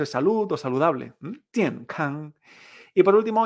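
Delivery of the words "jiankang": "Jiankang" dropping first, held even at the end; falling then level tones. Shown as a demonstration. Teacher repeating health, "Jiankang" falling then level. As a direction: let "Jian" fall and keep "kang" level. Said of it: "son con la misma entonación".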